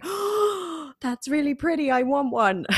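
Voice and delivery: imitating a preschooler seeing a harp for the first time; small child in awe. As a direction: play your four-year-old self, smitten with the harp. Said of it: "sat cross-legged in the front row going".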